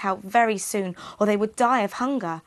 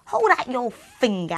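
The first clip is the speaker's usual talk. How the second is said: witch; 4 semitones higher, 3 dB louder than usual. Acted. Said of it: "she would cackle".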